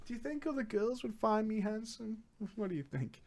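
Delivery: sheepish quiet. Retold or imitated. Quoting his own awkward question.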